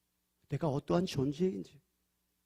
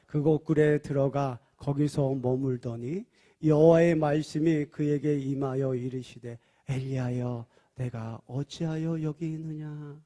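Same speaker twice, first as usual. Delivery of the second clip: slow, measured Bible reading; scripture reading; 3 semitones lower than usual. Shown as a demonstration. Pastor reading verse nine to congregation, slow and measured. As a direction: read the verse slowly, weighing each word. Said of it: "구 절, 시작".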